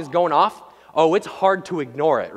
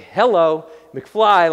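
mock wake-up call; 7 dB louder, much slower than usual. Acts God giving a wake-up jolt.

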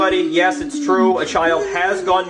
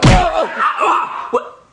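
shocked yelp; 11 semitones higher, much slower than usual. Acted. Cop punched in face.

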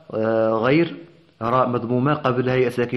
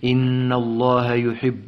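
slow chanted tajweed recitation; Quran recitation; slower than usual. Shown as a demonstration. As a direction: recite the verse in measured, melodic chant. Teacher recites next verse.

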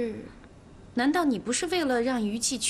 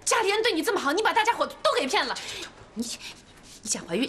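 angry accusation; 5 semitones higher, faster than usual. Acted. Sister-in-law accuses liar.

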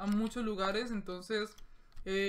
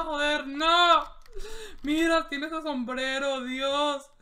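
very loud, high gamer shouts; fighting the hatted enemy, loud frantic yells; frantic yelling; 5 semitones higher, 13 dB louder, much slower than usual. Real, not acted. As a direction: bellow through the clutch fight.

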